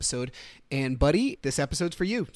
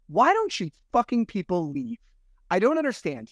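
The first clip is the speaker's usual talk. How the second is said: higher-pitched exasperated demand; mock-indignant complaint; retold pissed-off friend; 6 semitones higher than usual. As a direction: imitate a pissed-off friend venting, pitch raised. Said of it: "I'm fucking pissed".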